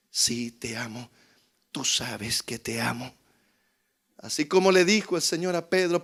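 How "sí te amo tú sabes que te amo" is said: quiet firm declaration. Acted. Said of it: "esa firme decisión de decir".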